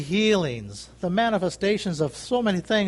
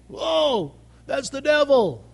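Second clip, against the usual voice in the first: mock alarmed skeptic; 6 semitones higher, slower than usual. Mock voice of fearful people.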